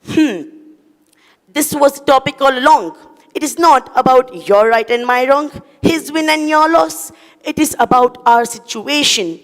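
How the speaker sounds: solemn cockroach. Acted. Cockroach telling the human the moral, lightly solemn. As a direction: deliver the lesson with gravity.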